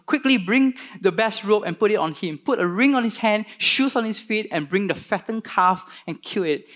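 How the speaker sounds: father calling excitedly to his servants; urgent father's command. Acted. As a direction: call out the orders with eager urgency.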